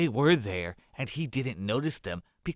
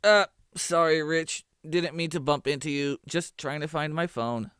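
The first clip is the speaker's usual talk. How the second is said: put-on higher young man, sheepish apology; sorry Rich, higher voiced and flustered; Armando's voice; 7 semitones higher, 7 dB louder than usual. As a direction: apologize awkwardly in a raised character voice. Narrator voicing Armando.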